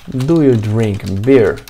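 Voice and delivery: very slow, careful English question; slow model question. Shown as a demonstration. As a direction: read the question out slowly. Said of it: "Alguém vai me pedir assim".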